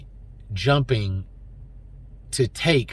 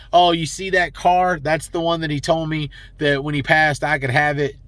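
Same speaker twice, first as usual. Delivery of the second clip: mocking greedy relative; 4 semitones higher than usual. Vlogger mocks greedy relatives who claim heirlooms, in a lightly put-on whiny higher voice. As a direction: sneer at the grasping relatives.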